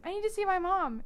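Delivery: high mock Clary, no British accent; plain American take. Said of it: "she's not British".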